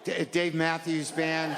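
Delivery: slow, stammered sheepish admission; hesitant confession. Retold or imitated. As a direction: confess it slowly, bracing for judgment. Barista admits hesitantly.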